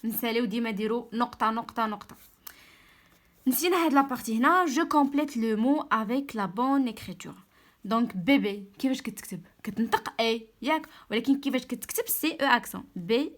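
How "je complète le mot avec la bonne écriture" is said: very slow, careful dictation pace; slow read-aloud. Shown as a demonstration. Teacher reading the exercise title to pupils, very slow. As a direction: read each word out slowly. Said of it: "teacher reads exercise instruction".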